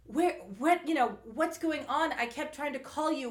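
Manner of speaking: mock urgent interrogation; retold agitated questioning. Host acting Katya asking all these questions, agitated.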